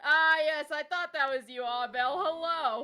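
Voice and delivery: loud, bright welcome to a viewer; excited greeting. Real, not acted. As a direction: greet them with a big welcome.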